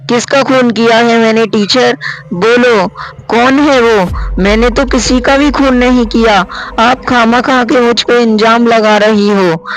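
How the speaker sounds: put-on a girl crying foul at false blame. Schoolgirl denying the murder to her teacher, high indignant voice.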